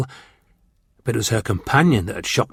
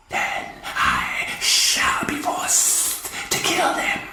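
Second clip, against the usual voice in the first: slow, quiet whispered threat; calm menace in a hiss; 10 semitones lower, 4 dB quieter, much slower than usual. A narrator's reading. Martian warlord threatening witnesses, calm slow hiss. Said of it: "hissed the Martian warlord calmly".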